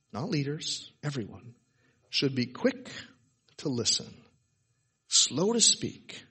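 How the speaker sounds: slow, with long pauses between phrases; slow deliberate reading. Shown as a demonstration. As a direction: weigh every phrase, leaving space after each. Slow emphatic scripture reading.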